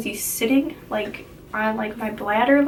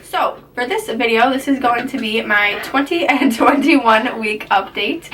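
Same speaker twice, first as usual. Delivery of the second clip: crisp announcer read, a little louder; news anchor voice; 5 dB louder than usual. Acted. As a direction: read it like an evening news intro. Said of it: "I said that like a news anchor".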